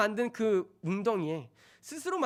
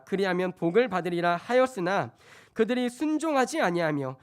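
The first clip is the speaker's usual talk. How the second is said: loud, declarative scripture reading; 4 dB louder than usual. Acted. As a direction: proclaim the verse to the congregation. Reads scripture to congregation. (큰 소리로 성경 봉독)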